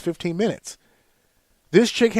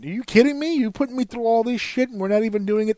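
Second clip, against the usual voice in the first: high-pitched retold protest; indignant; 5 semitones higher, faster than usual. Customer to agent after an hour on chat, indignant. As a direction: push it out in mounting, incredulous exasperation.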